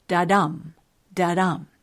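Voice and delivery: light da, strong dum; iambic beat. Shown as a demonstration. Podcaster demonstrating an iamb for listeners, iambic beat. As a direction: stress on the dum of each da-dum. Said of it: "unstressed syllable followed by a stressed syllable".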